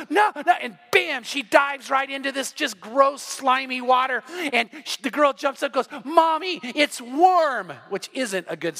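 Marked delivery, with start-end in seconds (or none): 0.1-0.5 high, louder cry of protest; alarmed mom. Retold or imitated. Mom trying to stop her girl, alarmed. 6.0-7.7 high-pitched imitation of a child; delighted little girl. Girl calling to mom from slimy water, delighted.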